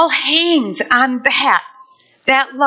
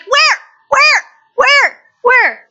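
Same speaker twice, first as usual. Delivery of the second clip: confused where; 12 semitones higher, 4 dB louder, slower than usual. Pretend. Confused squint through binoculars.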